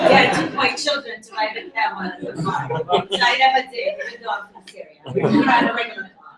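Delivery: chuckling through the words; laughing while talking. Real, not acted. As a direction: laugh as you tell the joke. Jokes about riding camels.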